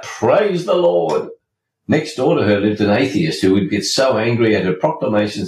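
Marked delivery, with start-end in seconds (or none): 0.0-1.3 high, slow, drawn-out call; old lady hollering praise; shouting praise. Retold or imitated. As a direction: call it out from the porch. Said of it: "She would stand on her front porch and shout".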